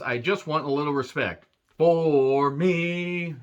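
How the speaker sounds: mock-dramatic plea, last words held long; slow, imitated plea for respect; drawn-out plea. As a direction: stretch the ending slowly like a hammed-up wrestler. Mimics Undertaker's plea for respect.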